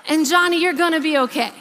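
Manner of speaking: half-laughing while retelling the joke. Real, not acted. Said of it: "we laugh about it".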